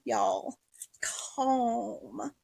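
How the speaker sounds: breathy whispered "Calm." to herself; a self-soothing hush. Pretend. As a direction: whisper yourself calm, nearly silent. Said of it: "to keep me calm".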